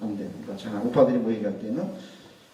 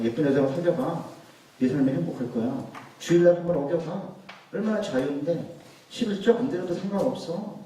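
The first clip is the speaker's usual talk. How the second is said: tempting serpent; 3 semitones higher than usual. Retold or imitated. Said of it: "뱀은 항상 약속을 이야기해요".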